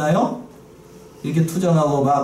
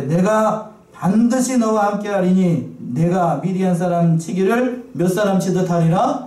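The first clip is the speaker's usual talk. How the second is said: slow emphatic reading; 3 semitones higher, slower than usual. Shown as a demonstration. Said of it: "slow emphatic reading".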